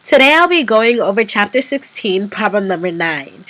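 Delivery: stuffy nose from a cold; talking through a blocked nose; nasal voice. Real, not acted. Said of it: "I apologize for the nasal voice".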